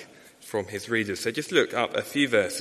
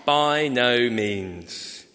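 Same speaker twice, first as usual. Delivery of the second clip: emphatic slow; much slower than usual. Shown as a demonstration. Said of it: "Paul's answer is emphatic".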